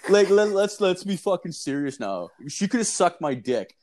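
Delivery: worked up. Real, not acted. Worked-up rant.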